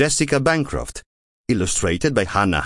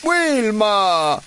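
high, exasperated group moan; siblings moaning; 11 semitones higher than usual. A narrator's reading. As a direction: groan her name in annoyance. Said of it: "moaned i suoi fratelli".

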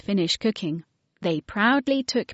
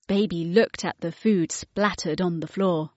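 usual speaking voice

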